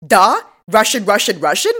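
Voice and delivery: imitation of shouted gibberish phone talk; hammed-up half yell; mock yelling. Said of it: "And then he starts yelling".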